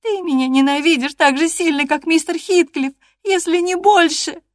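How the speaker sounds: very high, loud tearful cry; tearful shout. Acted. Catherine, openly crying, accuses Hareton of hating her. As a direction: wail it through tears. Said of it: "крикнула Кэтрин сквозь слёзы".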